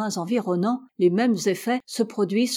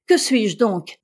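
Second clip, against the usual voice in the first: proud retort, louder; American proudly claiming his nationality, louder; 6 dB louder, slower than usual. Acted. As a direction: throw out his chest as he asks. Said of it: "dit fièrement Altamont".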